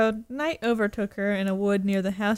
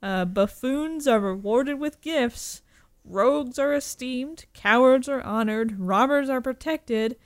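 dopey cartoon bellow; 4 dB louder than usual. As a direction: boom it out like a dopey cartoon ogre. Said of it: "And the ogre says".

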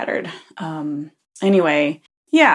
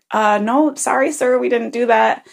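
put-on apologetic girl; 5 semitones higher than usual. Girl denies accusation to angry man.

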